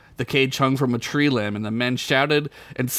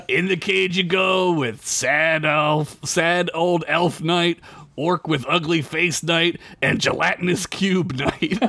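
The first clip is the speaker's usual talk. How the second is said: sergeant; 5 semitones higher than usual. Acted. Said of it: "the sergeant said".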